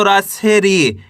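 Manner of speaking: long falling ee in री; drawn-out syllable. Shown as a demonstration. Teacher adding the long vowel to रा, री drawn out. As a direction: stretch री at the end. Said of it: "बड़ी का उच्चारण जोड़ना है".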